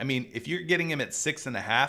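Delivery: plain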